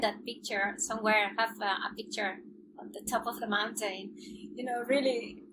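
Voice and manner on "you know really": louder, laughing at herself; real amused laughter. Real, not acted. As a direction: giggle at the awful photo face. Describing mountain-top photo.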